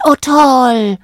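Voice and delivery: high, bubbly little bird; jubilant cheer. A narrator's reading. Little bird cheering at being invited along, jubilant. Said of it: "jubelte der kleine Vogel".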